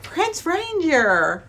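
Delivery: hammed-up cross bride; mock angry heroine. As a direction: bride scolding the prince who lied, mock angry. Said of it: "immediately she's like".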